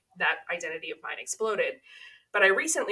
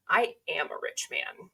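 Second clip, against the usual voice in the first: deadpan comeback; 3 dB quieter than usual. Retold or imitated.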